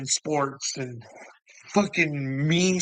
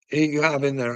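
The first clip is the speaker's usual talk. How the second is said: ordinary delivery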